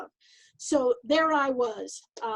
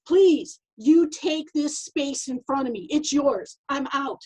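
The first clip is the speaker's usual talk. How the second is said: mock scared; 3 dB louder, slower than usual. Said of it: "Natalia's body language was like".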